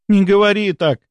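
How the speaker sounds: loud, pleading high cry; exclaiming. A narrator's reading. Countess cries out to the baron, loud and high. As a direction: cut him off with a cry. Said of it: "воскликнула графиня".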